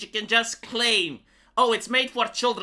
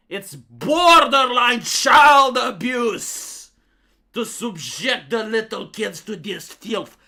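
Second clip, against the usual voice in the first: mock outrage; 6 dB louder, slower than usual. Reading outraged article aloud.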